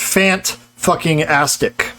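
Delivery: "Fant-fucking-astic" said slowly, the infix cut in after "Fant"; wrong infix demo. Shown as a demonstration. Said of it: "also doesn't work".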